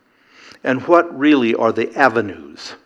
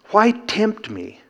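high slow question; 10 semitones higher, slower than usual. Acted. Question repeated after cough.

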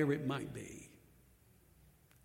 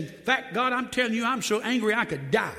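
angry prophet; 4 semitones higher, 4 dB louder than usual. Retold or imitated. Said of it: "this is what he said".

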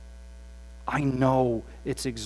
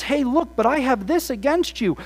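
raised, higher firm warning; firm rebuke; 9 semitones higher, 7 dB louder than usual. Retold or imitated. Jesus confronting the church, raised and firm. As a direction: call them out plainly but strongly.

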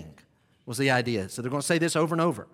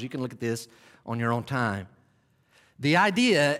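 ordinary delivery

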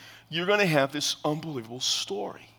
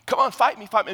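mocking giant's taunt; 5 semitones higher, 3 dB louder than usual. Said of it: "he's mocking the people of Israel".

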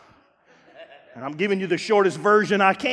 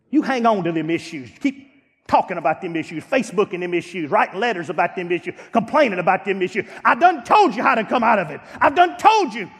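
rising preacher's rebuke; preaching; 2 semitones lower than usual. Acted. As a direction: build each "them issues" line. Preaching building to full force.

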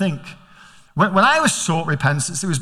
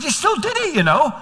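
fatherly reminder; 10 semitones higher than usual. Retold or imitated. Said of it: "I said".

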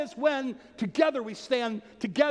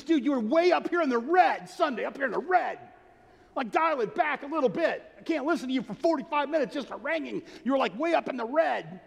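higher-pitched retelling of a blunt friend; imitating the critic; 6 semitones higher than usual. Friend telling the pastor his preaching was too much, higher voice. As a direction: play the guy with the meter, higher, matter-of-fact. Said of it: "he called it his harangue meter".

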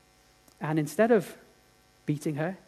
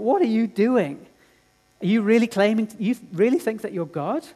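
jeering mockers; 5 semitones higher, 5 dB louder than usual. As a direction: scoff like a mocking crowd. Mockers jeer at Jesus.

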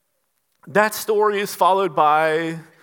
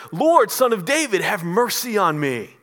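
screaming louder; 2 semitones higher than usual. Retold or imitated. Blind man cries louder to Jesus, raised begging call. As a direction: call out harder than the first time, louder. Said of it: "He screams even louder".

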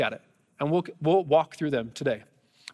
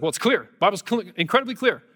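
a touch louder, mock-heated certainty; heated insistence; 3 semitones higher, 3 dB louder than usual. Stranger on a plane insisting to the pastor, mildly heated. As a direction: retell a stranger's heated insistence, half-acted. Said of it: "The guy gets all heated in a moment".

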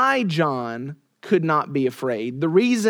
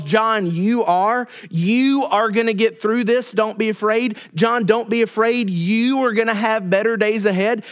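higher-pitched, emphatic hollow reassurance; mock pep talk; 4 semitones higher than usual. Preacher imitating what Jesus doesn't say to John, mock cheerleading. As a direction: pile up the encouragement, leaning on YOU. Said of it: "That's not what Jesus says".

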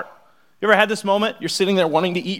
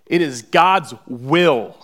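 slow, each word leaned on and louder; slow and weighty, stressing "God's"; emphatic preaching; 5 dB louder, much slower than usual. Real, not acted. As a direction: hammer home God's will.

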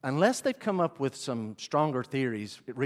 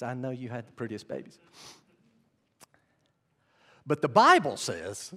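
normal talking voice

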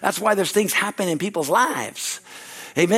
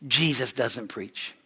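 soft answer; 6 semitones lower, 6 dB quieter, much slower than usual. Real, not acted. If/then contrast.

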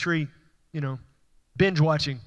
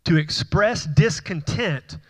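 slowed for emphasis; slower than usual. Shown as a demonstration. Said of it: "It literally means".

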